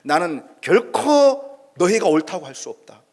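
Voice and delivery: loud, slow, firm rebuke of friends; forceful retort. Retold or imitated. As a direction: snap back at them, slow and loud. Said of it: "이렇게 강하게 쏘아붙입니다".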